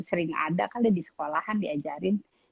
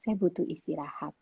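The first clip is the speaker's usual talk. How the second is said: politely; 6 dB quieter than usual. Retold or imitated. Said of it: "Ngomongnya tapi baik-baik".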